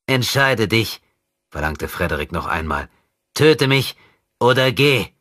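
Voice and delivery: put-on a demon in a child's body toying with his enemy; possessed boy taunting. Possessed boy mocking André's rescue, sinister.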